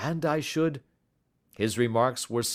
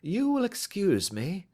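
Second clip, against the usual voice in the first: bland; 11 semitones higher than usual. Acted. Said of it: "said Holmes blandly".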